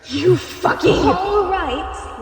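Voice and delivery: high, loud curse cut short; furious outburst. Acted. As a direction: snap the curse out, then choke it off. Angry outburst at Phobos.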